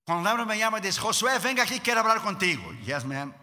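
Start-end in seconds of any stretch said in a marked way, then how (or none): 1.0-2.6 lightly imitated wife calling him over; a touch of stern summons from a wife; wife summoning husband. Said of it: "Damaris tiene tres maneras de hablar". 2.8-3.3 low, meek reply; acted dutiful submission; obedient husband. Husband answers wife's stern summons.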